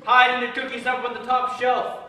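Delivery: hammed-up interrogator driving the accusation home; bad-cop accusation.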